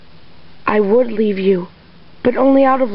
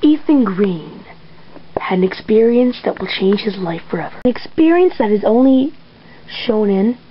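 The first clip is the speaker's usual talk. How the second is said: TV narrator; 2 semitones lower than usual. Acted. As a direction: close it like a mystery show host. Closing Twilight Zone narration.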